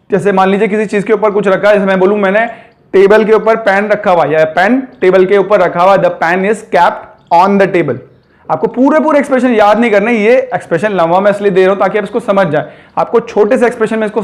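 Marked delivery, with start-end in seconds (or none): 6.0-8.0 spoken very slowly, word by word; very slow demo. Shown as a demonstration. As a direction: spell the sentence out slowly for learners. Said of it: "teacher models the sentence". (बहुत धीरे, एक-एक शब्द)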